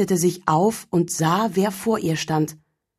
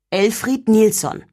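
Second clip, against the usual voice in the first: stern; 4 semitones higher, 3 dB louder than usual. Acted. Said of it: "sagte der Weihnachtsmann streng".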